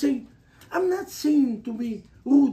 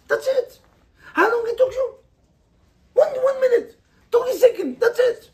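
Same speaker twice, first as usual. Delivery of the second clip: high laughing count; 11 semitones higher, 6 dB louder than usual. Real, not acted. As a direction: laugh while counting the seconds. Laughing at how short it was.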